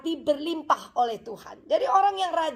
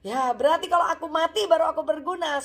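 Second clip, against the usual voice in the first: mock-shocked pig's outburst; startled pig; 5 semitones higher than usual. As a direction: react taken aback, pitch jumping up. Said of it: "Babi kaget gitu".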